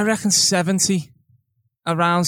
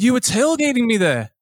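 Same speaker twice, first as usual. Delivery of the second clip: higher-pitched imitation of a European old man; European accent; 6 semitones higher than usual. Old man insisting he was tailgated, European accent. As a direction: mimic his vaguely European accent, pitched up. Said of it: "some kind of European accent".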